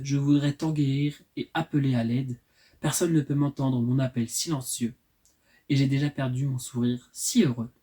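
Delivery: even, measured recital of verse; poem reading. Acted. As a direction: recite your own poem, phrase by phrase. Reads own poem aloud.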